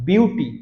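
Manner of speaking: বিউটি said as one isolated chunk; syllable demonstration. Shown as a demonstration. Teacher shows how much is said at once, syllable demonstration. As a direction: set বিউটি apart to show its syllables. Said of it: "একটা ওয়ার্ডের কতটুকু উচ্চারণ করতে পারছি".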